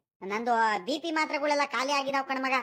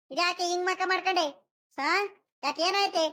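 higher-pitched acted puzzlement; puzzled questioning; 5 semitones higher than usual. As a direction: ask what's wrong, voice lifted. Asks why she looks angry.

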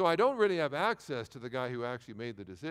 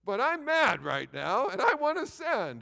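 torn inner voice; 8 semitones higher, 7 dB louder, slower than usual. Retold or imitated. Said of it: "I'm like".

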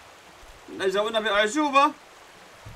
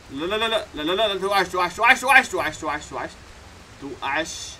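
panicked pleading. Real, not acted. Panicking as he nearly falls.

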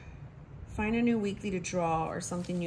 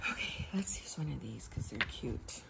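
whisper; 6 semitones lower, 7 dB quieter than usual. Real, not acted. Whispering while choosing stickers.

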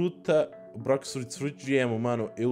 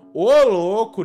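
excited; 4 semitones higher, 12 dB louder, slower than usual. Real, not acted. Reacts to a good fruit roll.

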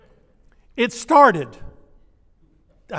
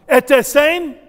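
higher, punchy Ete, ete sane; gruff Twi greeting; 7 semitones higher, 7 dB louder than usual. Shown as a demonstration. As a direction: sound almost mad at them. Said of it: "almost sounds gruff".

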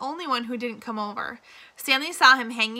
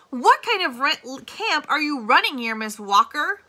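louder, indignant demand; a touch of outrage at the warden's incompetence; outraged; 4 semitones higher, 6 dB louder than usual. A narrator's reading. Attorney General scolds the warden over lost file, indignant. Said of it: "The Attorney General was outraged".

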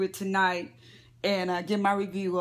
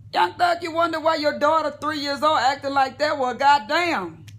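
scolding; 5 semitones higher than usual. Real, not acted. Scolding celebrities directly.

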